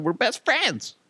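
high-pitched mimicking of an eager kid; mock chummy kid. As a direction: chirp it like an overfriendly boy. Mimicking the boy's claim.

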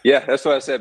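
high, loud laughing admission; a laughing, high yeah that's what I said. Real, not acted. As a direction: own up to it with a laugh. Laughing at own past arrogance.

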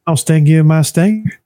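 high dopey cartoon bee; Family Guy bee. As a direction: whine it out high like a doomed bee. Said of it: "that bee from, uh, from Family Guy".

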